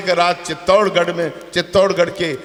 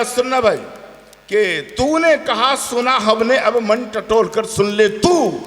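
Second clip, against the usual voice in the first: slow, declaiming verse; poem recitation; slower than usual. Acted. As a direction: recite slowly, weighing each line.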